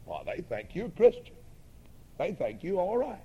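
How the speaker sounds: low, quiet inner voice; lightly voiced whisperer of doubt, kept low; little tempting voice. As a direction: mimic a quiet nagging doubt. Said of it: "I could almost mimic the voice".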